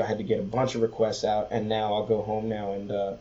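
hoarse, low, strained voice; talking with almost no voice left; raspy whisper. Real, not acted. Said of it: "'cause I have no voice".

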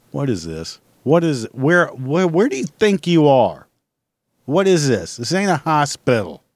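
loud, indignant mock telling-off; mock scolding. Scolding a shopper in slippers, loud mock outrage. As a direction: scold the slipper wearer in the aisle.

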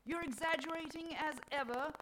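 loud, high, impatient rebuke. A narrator's reading. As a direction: brush the claim aside impatiently. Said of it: "says Mother Nature impatiently".

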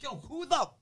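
high, slow indignant challenge; angry demand. Retold or imitated. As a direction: call him out, furious. Confronting hustler on phone.

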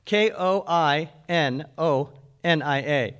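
slow letter-by-letter spelling; deliberate spelling-out. Shown as a demonstration. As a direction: spell each letter slowly. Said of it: "You want me to spell it for you?".

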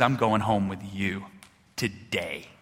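low, soft and measured; gentle invitation. Retold or imitated. Jesus to the sinner he calls, gentle invitation. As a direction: let the words settle quietly, tenderly.

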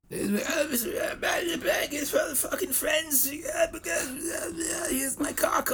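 very high, slow laughing shriek; mock Sharon come-on. Mocking Sharon's offer to LeBlanc, high laughing shriek.

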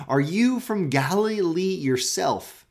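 slowed, sneering question; drawn-out scornful jab; mocking retort. Pharisees sneering at Nicodemus, slow mocking question. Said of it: "look at this".

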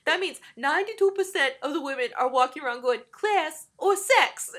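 rushed mock urban accent, stretched loud and high at the end. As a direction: imitate a ridiculous urban swagger, landing big on the last words. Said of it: "His ridiculous urban accent".

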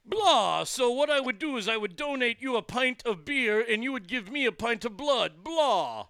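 hammy vampire caller; Dracula voice. Acted. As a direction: play a silly vampire on the phone. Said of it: "The Dracula voice".

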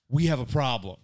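horror film voice. Retold or imitated. Husband mocks wife's ominous phone call, horror-film voice. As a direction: say it like doom is coming. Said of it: "like you were in a horror film".

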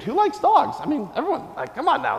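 called-out question. Real, not acted. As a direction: shout out to the class. Asking the kids, hands up.

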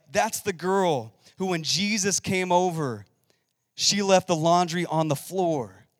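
mock gossip. Imagined gossip about Martha.

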